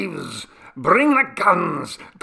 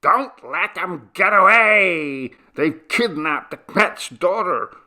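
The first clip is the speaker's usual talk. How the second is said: shouting; 9 semitones higher, 8 dB louder than usual. A narrator's reading. Villagers raising the alarm house to house, high shouts. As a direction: call it out across the village. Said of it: "shouting raised from house to house".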